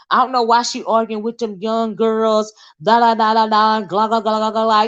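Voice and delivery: lightly mocked whiny gossip, trailing into gla gla babble; mocking Nika's complaint. Vlogger mocking a rival's complaint, lightly whiny babble. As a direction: make fun of her nagging, then babble gla gla. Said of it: "Bless the Nika in particular".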